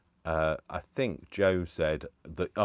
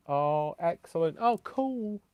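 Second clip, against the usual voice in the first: excited reaction; 10 semitones higher, slower than usual. Real, not acted. Reacting to cake comment.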